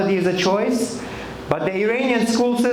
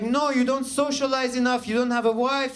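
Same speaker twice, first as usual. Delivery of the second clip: higher-pitched, lightly acted complaining father; imitated nagging dad; 6 semitones higher than usual. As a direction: nag your son as his dad. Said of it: "He's like".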